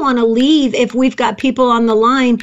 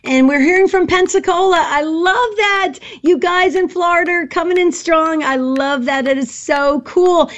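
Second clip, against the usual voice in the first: high-pitched, excited outburst, stretching the key words; excited blurt; 4 semitones higher than usual. Real, not acted. Co-host cheering on Florida callers as pledges come in, excited. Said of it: "I get so excited when calls pop in".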